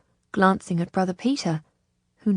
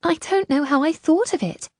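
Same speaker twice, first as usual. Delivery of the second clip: high, slightly shaken voice; mild shakiness, pitched high; shaky relief; 8 semitones higher, 3 dB louder than usual. A narrator's reading. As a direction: marvel at it, still a little shaken. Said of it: "She laughed shakily".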